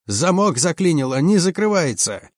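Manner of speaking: high, strained call for help; urgent cry. A narrator's reading. Mechanic at jammed hatch to others, crying out. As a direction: call out the problem in alarm. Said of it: "кричал кто-то".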